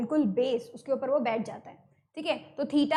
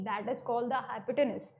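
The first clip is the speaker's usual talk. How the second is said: slow term; 3 semitones lower, 5 dB quieter, much slower than usual. Shown as a demonstration. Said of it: "teacher names key term".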